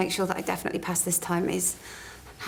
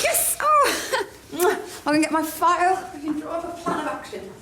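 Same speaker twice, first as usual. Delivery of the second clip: squealing with delight and laughing; overjoyed; 8 semitones higher, 5 dB louder than usual. Real, not acted. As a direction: burst out in happy laughter. Overjoyed mentor agreed.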